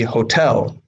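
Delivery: "hotel" stressed on the last syllable, ho-TEL; stress on second syllable. Shown as a demonstration. Teacher showing learners correct English, "hotel" stressed as ho-TEL. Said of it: "the E is stressed".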